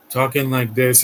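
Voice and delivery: lightly imitating lifeless voice acting; mock autopilot delivery. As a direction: put on a bored actress reading on autopilot. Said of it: "she is on autopilot".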